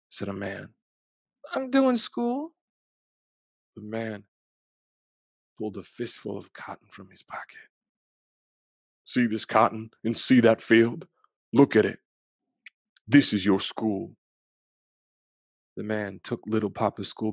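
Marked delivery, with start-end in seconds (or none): 1.5-2.5 put-on high, slow small boy; a proud little boy answering. Young boy tells the man he's doing school, high childlike voice. 9.0-14.2 louder, harsh lecture; a hard man laying down the law; stern man. Acted. Cotton field man scolds the boy about school, loud stern voice.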